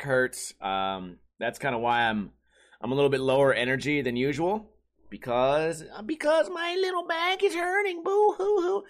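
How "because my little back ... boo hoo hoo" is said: put-on whiny baby voice. Whining about back pain.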